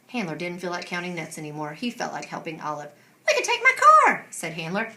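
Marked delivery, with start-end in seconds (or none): 3.3-4.3 laughing. Acted. Handler laughs while offering.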